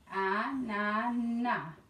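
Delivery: "Ananas" slowly in three separate beats; syllable by syllable. Shown as a demonstration. Teacher reviewing syllables with the class, "Ananas" beat by beat. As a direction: space out "Ananas" as A, na, nas. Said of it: "Let's do our syllabes".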